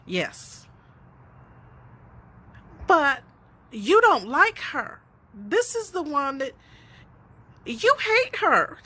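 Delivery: put-on high, childish voice of a curious daughter, rising to a laughing squeal; piping child. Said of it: "my little precious pipes up from the back seat".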